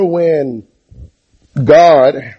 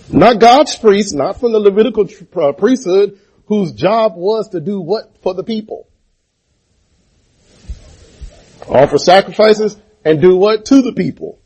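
raised, driving preacher's call; preaching; 6 semitones higher than usual. Acted. Preacher pressing his church for the answer, in full-force preaching.

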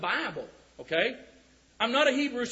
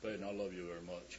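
much lower and softer, fast, in a deep manly voice; masculine voice; 13 semitones lower, 15 dB quieter, faster than usual. Shown as a demonstration. Telling Peyton he loves him, in a put-on deep masculine voice. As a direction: drop it way down and play the tough guy. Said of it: "It would have to say it in a masculine voice".

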